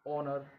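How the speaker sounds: "ऑनर" starting straight on the vowel; silent H. Shown as a demonstration. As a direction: say "ऑनर" with no h sound at the front. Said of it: "ऑनर में भी एच क्या है, silent है". ("ऑनर" में एच silent)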